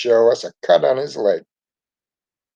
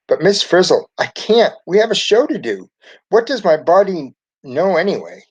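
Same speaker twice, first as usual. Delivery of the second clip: put-on protesting kid; 7 semitones higher, 3 dB louder than usual. A narrator's reading. Sick Ralphie protesting.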